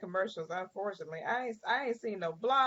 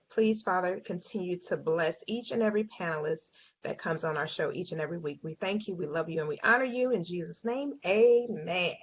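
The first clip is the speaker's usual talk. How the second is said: prayer; 3 semitones lower than usual. Acted. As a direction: pray it sincerely to the group. Host leads the opening prayer.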